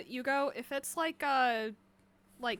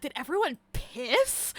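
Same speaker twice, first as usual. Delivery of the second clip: slow mock-innocent question; silly mock voice; slower than usual. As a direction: ask it in a silly put-on voice. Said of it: "like, in that voice".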